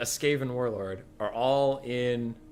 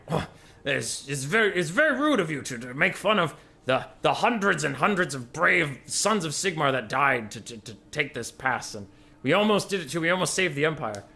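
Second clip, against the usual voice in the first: Imperial soldier; 4 semitones higher, 3 dB louder than usual. Acted. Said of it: "he's like".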